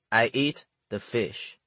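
put-on slow, heavy Chinese-accented English; thick Chinese accent. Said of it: "in my thick Chinese accent".

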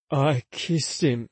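put-on slow drunk slur; slow and slurred. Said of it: "My words were slow and slurred".

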